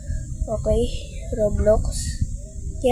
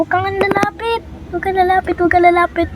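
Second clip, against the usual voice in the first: panicked pleading; 6 semitones higher than usual. Real, not acted. Clown closing in, repeated warnings.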